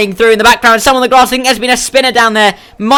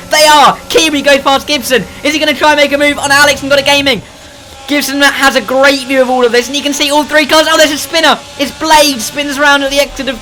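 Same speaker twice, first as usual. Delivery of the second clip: excited, raised pitch play-by-play; motorsport commentator; 4 semitones higher than usual. Real, not acted. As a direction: build the race excitement. Close battle, rising excitement.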